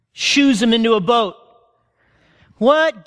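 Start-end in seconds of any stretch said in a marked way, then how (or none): 2.6-3.1 confused disciple. Retold or imitated.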